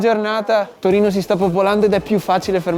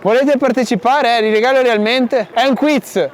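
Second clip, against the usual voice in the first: raised voice hailing passersby; calling out; 3 semitones higher, 3 dB louder than usual. Real, not acted. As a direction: call out to people walking past.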